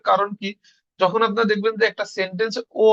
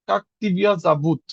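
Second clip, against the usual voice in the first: slow, careful Russian phrase; slow demo. Shown as a demonstration. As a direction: say it slowly so students can copy. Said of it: "এখানে আর মতন উচ্চারণ হবে". (ধীরে স্পষ্ট উচ্চারণ)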